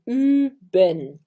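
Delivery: "üben" with a pursed ü; German üben. Shown as a demonstration. Teacher demoing the verb üben. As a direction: pucker and say "üben". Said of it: "eu coloquei o verbo üben".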